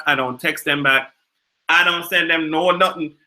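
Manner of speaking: put-on Jamaican patois; Jamaican accent. Explaining how they drag family members, in a Jamaican accent. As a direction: keep up the Jamaican lilt. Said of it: "talk in my Jamaican accent".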